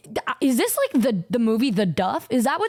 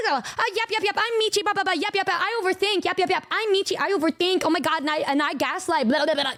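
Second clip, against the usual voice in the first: mocking Michi; 5 semitones higher, faster than usual. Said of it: "And then she's like".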